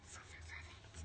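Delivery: soft unvoiced apology; whispered sorry. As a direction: murmur the apology under your breath. Sheepish apology to senior. (ささやき声で謝る)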